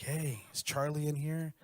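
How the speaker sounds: slow mock soldier bark. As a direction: play the soldier storming in. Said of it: "do the accent".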